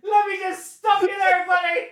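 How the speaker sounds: high, cocky hero line; superhero voice. Acted. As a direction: play the smug rescuer. Acting out a superhero bit.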